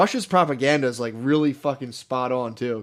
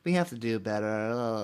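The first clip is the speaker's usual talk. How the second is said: mock Trudeau; 4 semitones lower, 8 dB quieter, slower than usual. Mocking Trudeau.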